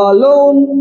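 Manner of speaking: "alone" drawn out as two separate syllables, a - lone; split into syllables. Shown as a demonstration. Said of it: "তার মানে আ আর লোন". ("alone" দুই সিলেবলে ভেঙে, আ - লোন টেনে বলা)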